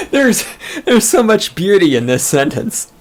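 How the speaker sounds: talking through real laughter; laughing. Real, not acted. Laughing while reading aloud.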